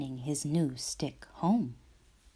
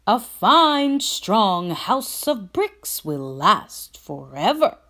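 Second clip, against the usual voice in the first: builder; 4 semitones higher, 7 dB louder than usual. A narrator's reading. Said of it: "replied the builder".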